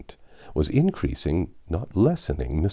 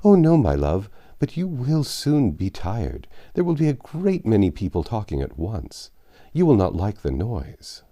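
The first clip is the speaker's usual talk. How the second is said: put-on higher, fussy elderly gentleman voice; fretful old father; 5 semitones higher than usual. Anxious father worrying over Emma dining out, fretful old voice. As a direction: fret over late hours and damp air like an anxious old man.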